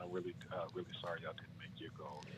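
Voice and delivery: soft, hushed phone voice; whisper voice. Real, not acted. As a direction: keep it low and breathy. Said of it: "whisper voice".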